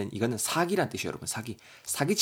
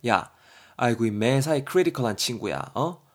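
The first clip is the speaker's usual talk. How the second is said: mildly hammed-up exasperation; mock-scold a friend, drawn out; a touch of temper, ending in disbelief; acted annoyance; 3 dB louder than usual. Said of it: "성질을 내고 있습니다".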